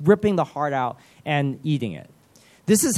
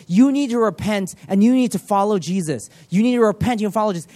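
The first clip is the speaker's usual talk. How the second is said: raised, insistent call to repent; mock shouting pastor; 4 semitones higher than usual. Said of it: "he was shouting at him".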